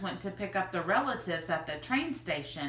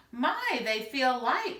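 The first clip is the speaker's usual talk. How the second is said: higher, louder puzzled remark; 6 semitones higher, 5 dB louder, slower than usual. Acted. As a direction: lift the voice as if weighing something light. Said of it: "remarked Missus Tappleton".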